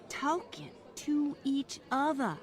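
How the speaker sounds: slow, pointed disapproval; appalled slow emphasis; scandalised. Acted. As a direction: drag it out as if it's shocking. Scandalised employer repeats the offence.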